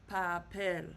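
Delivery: papel said pa-PEL; stress on last syllable. Shown as a demonstration. Teacher giving the correct word after the mistake, papel stressed on PEL. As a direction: land firmly on the PEL of papel. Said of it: "stress is gonna go on the last syllable".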